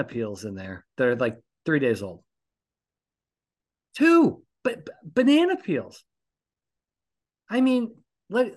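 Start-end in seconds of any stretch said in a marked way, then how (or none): 4.0-8.5 high, loud, stammering disbelief; disgusted outburst. Real, not acted. Host discovering his son's rotting banana peels, stammering high and loud. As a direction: sputter it out, appalled at the mess.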